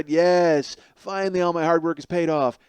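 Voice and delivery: smug and self-satisfied. Acted. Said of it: "very smug and self-satisfied".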